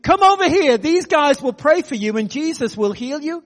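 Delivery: high, loud call to the room; retold public announcement. Muslim man summoning the whole bar for prayer, loud announcement. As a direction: proclaim it so the whole bar hears. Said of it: "announces to the whole bar".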